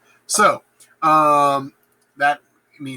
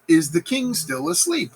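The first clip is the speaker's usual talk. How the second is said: high voiced Macduff question; 11 semitones higher than usual. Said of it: "and Macduff says".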